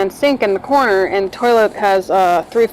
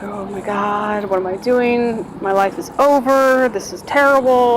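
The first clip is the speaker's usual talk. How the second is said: despairing inner voice; 3 semitones higher than usual. Retold or imitated. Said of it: "I start crying".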